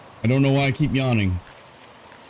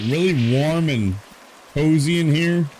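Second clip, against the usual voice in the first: yawning; 4 semitones higher, slower than usual. Real, not acted. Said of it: "Now I'm, like, yawning".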